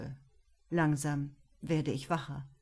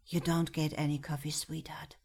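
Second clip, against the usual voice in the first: whisper. A narrator's reading. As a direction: hush it gently so no one wakes. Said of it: "flüstert Frank".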